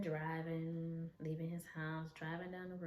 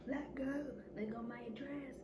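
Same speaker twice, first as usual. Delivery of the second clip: high, pushy repeated command; demanding; 8 semitones higher than usual. Retold or imitated. Him ordering her to let go of his dress, high demanding. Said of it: "He was like".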